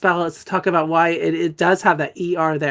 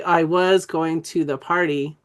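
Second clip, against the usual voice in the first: slow, "was" stretched out in "I was going to the party"; deliberate word by word; slower than usual. Shown as a demonstration. Teacher showing trainees how a sentence sounds, slow and deliberate. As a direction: spell out the sentence slowly, each function word given weight. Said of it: "It's actually".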